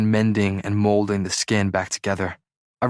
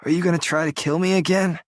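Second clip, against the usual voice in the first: weak, hoarse and higher, teasing; 8 semitones higher than usual. Acted. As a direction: croak out a joke. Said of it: "his voice hoarse".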